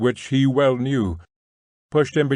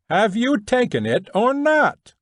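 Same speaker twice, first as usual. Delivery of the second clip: shouting tramp; 11 semitones higher than usual. A narrator's reading. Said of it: "shouted the tramp".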